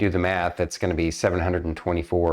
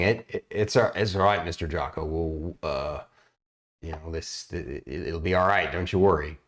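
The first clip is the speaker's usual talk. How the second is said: reassuring; 4 dB quieter than usual. Acted. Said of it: "you hear Silva saying".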